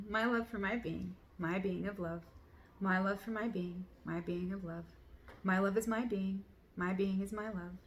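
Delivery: rhythmic, earnest chanting of affirmations; affirmation reading. Acted. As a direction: read it like a mantra, steady and devoted. Reads out journal affirmations.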